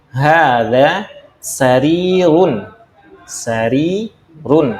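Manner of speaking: very slow, SARIRUN with RI held long. Shown as a demonstration. Teacher models vowel length, SARIRUN with long RI. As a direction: stretch the middle syllable of SARIRUN. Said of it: "Rinya yang panjang ya".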